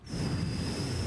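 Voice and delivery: long airy whoosh; imitated rushing noise. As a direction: blow out a noisy rush of air. Imitates noise spoiling the recording.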